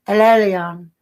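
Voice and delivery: imitating her foreign-accented "El Elyon", lightly voiced. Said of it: "she'd say it with that accent".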